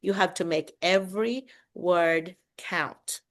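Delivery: slow, deliberate teacher's advice; spaced-out, carefully enunciated words; every word counts. Retold or imitated. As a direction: give each word its own weight. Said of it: "my doctorate teacher would say".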